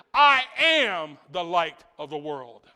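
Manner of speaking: slow, loud proclamation; Jesus crying out. Retold or imitated. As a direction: call it out over the crowd. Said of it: "He cries out and he says".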